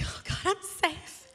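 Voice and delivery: breathless whisper of relief; hushed thankful whisper. Retold or imitated. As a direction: whisper it like you just escaped. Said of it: "I'm like".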